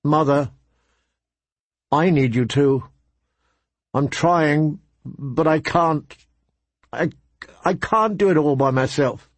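put-on a boy on the edge of tears, pleading; pleading son, voice breaking. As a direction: let the voice crack with sudden emotion. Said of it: "His voice broke with sudden emotion".

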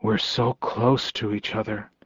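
very soft, hushed confession; barely-there, intimate murmur; whispered. A narrator's reading. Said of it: "he whispered, as if saying it any louder".

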